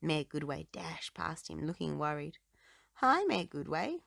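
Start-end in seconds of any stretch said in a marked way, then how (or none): 2.9-4.0 calling out. A narrator's reading. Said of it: "Rubble called".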